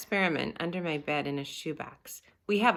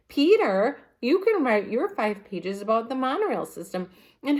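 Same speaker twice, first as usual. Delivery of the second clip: high, louder, dictating orders; bossy Sheila; 6 semitones higher, 5 dB louder than usual. Acted. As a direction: hand out jobs like a little boss. Sheila bossing the group.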